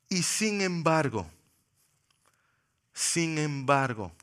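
slow, weighty "sin embargo"; soft slow repetition; slow emphatic pause. Acted. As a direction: let the turn hang, slowly. Slow repeated turn.

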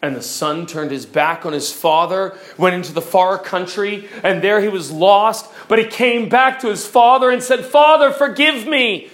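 storytelling that grows steadily from hushed to impassioned; gradual crescendo. Shown as a demonstration. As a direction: let pitch and volume climb in proportion. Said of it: "a slow increase, a growth".

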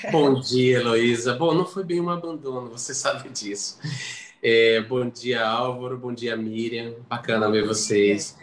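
nasal voice from a bad cold; stuffy nose. Real, not acted. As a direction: speak through a blocked nose. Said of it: "então minha voz tá assim, anasalada".

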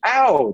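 a sharp high "Ow" of pain; mock yelp of pain. Shocked subject in next room, high mock yelp. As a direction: yelp like you just got shocked. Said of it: "the person yells".

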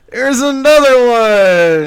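high, slow, incredulous; stunned disbelief. Retold or imitated. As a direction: drag it out in disbelief. Reaction to another baby.

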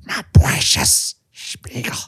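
low, slow creature rasp; hammed-up Smeagol impression; weird creature voice. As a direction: drag it out as a weird low croak. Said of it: "do the weirdest voice you can do".

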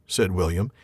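reading the troll scene aloud with voices; story reading. A narrator's reading. Podcast host reading the troll scene to his co-host, story narration. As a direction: read it like a storyteller at the fireside.

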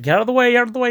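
retold clear-the-way call; mock urgent shout. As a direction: imitate shoving through a crowd. Retold pushing through a crowd.

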